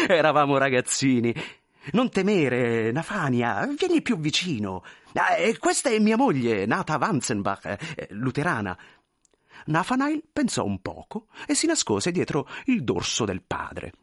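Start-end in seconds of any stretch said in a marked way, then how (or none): 0.1-8.8 animated, lightly voiced character; eager, slightly fussy introductions; effusive thin man, chatty. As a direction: coax the shy son, then present the wife. Thin man reassures son, introduces wife.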